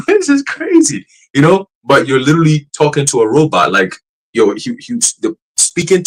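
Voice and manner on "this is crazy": amazed reaction. Retold or imitated. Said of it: "I'm like".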